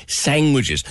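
"Sandwiches" said with a G, as "sangwiches"; Cork-style pronunciation. Retold or imitated. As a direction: put a G in "Sandwiches", Cork-style: "sang-wiches". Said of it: "There's a G in it".

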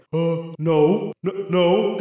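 lightly voiced mysterious wizard; magical voice. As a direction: speak into their heads, only lightly in character. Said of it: "magic microphone that talks straight into your head".

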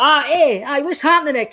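lightly voiced gloating rival; cocky opponent. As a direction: needle him like a smug young player. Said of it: "he's pure like".

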